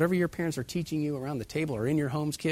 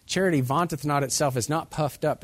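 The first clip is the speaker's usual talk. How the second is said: louder King James reading; ringing preacher's quotation; scripture proclamation; 5 dB louder than usual. Shown as a demonstration. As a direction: proclaim the verse to the congregation. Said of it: "reading scripture aloud with force".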